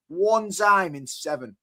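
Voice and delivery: "One time in seven" drawn out slowly; emphatic repeat. Real, not acted. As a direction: stretch out "One time in seven" to hammer it home. Emphatic repeat of rival's record.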